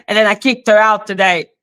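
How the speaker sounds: breezy imitation, quick and offhand; imitating someone's casual report; mock nonchalant. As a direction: toss it off as if it were nothing. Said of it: "So nonchalant".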